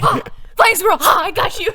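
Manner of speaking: high, giggling through words; cracking up at the joke; laughing. Real, not acted.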